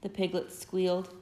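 put-on lively storybook read-aloud for little kids; gentle, animated story reading; reading to children. A narrator's reading. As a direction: tell it like a bedtime picture book. Parent reads picture book aloud.

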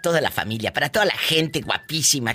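radio announcer. Acted. Host reads show plug, numbers.

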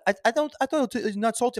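high, whiny imitation of mom; mock whiny mom. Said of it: "she's like".

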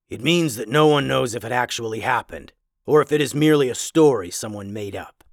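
a lightly voiced learned werewolf; scholarly werewolf. Werewolf voice again.

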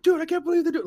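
high, loud disbelief; mock the stunned moviegoer; incredulous guy. Clapping guy complains to his neighbour, high and excited. Retelling guy talking to him.

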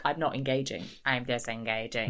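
lightly voiced haughty withdrawal; cool detached Caroline. Mimicking Caroline refusing to engage, low and quiet. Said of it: "Caroline's kind of queen".

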